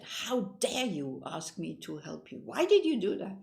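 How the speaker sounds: retold scream. Gang leader screaming at the homeless man, angry yell. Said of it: "he screamed at him".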